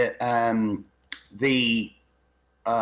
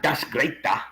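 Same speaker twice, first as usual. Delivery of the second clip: lightly imitated Liverpool accent; mimicked Liverpool dialect. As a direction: put on a quick bit of Scouse. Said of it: "you can go to Liverpool".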